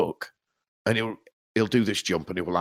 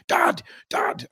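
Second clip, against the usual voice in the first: calling out whispered. Retold or imitated. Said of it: "you just hear him shout".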